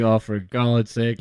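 slow, drawn-out exasperated groan; hammed-up frustration; mock exasperation. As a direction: drag it out in despair. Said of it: "I was just like".

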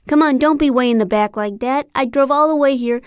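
coaxing. Acted. John coaxing her up front.

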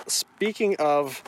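drawn out slowly, announcer-like; slow segue line. Shown as a demonstration. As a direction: stretch out the segue phrase. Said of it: "You have to say, "Speaking of".

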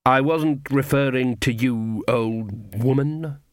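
slow, icy dismissal; coldly putting someone in their place. Acted. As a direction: draw it out with cold disdain. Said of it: "said Lily coldly".

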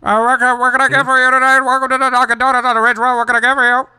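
high, bright service-window voice, up a lot; drive-thru worker voice. Pretend. Coworker playing a drive-thru clerk in a skit, high and chirpy. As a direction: play the cheery Dunkin' clerk at the speaker box. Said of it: "This is me".

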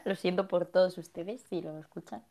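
talking with candy in mouth; words round a sweet; sucking a hard candy. Real, not acted. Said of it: "Me metí un caramelo en la boca".

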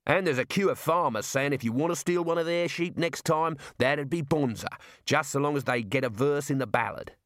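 lightly voiced jailer, pitched a little up; cheerful Australian jailer. Jailer tells Rincewind of admiring farmers, cheerful Australian voice. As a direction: chat admiringly in an Australian accent.

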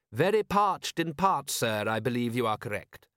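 lightly voiced proper butler; a hint of stiff, eager manservant; prim butler voice. Butler character voice.

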